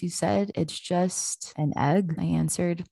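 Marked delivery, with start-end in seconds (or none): 0.5-2.2 slow dawning wonder. Acted. Dead man grasps the truth.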